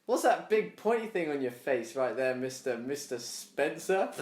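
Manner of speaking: slow, drawn-out alien question with a rising end; curious alien. Pretend. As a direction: quiz the human like a puzzled alien.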